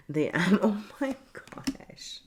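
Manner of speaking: high, slow cackle; cackling. Real, not acted. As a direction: burst into a cackle. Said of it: "why am I cackling over here".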